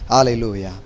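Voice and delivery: ordinary delivery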